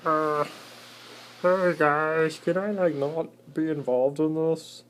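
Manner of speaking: squeaky plea to stay out of it; a meek little spider asking to be left alone; lightly voiced timid spider; timid cellar spider.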